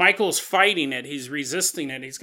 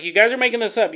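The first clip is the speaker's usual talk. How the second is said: disbelieving; 7 semitones higher, 7 dB louder, much faster than usual. Retold or imitated. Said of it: "The mom refuses to hear the story".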